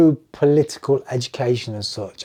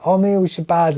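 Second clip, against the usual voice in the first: mock Cockney; 7 semitones higher, 4 dB louder than usual. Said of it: "I best Oliver Twist that accent".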